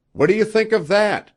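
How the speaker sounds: high, loud triumphant shout; excited cry. A narrator's reading. Young Indian to Rod hurrying over, excited cry. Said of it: "cried the young Indian".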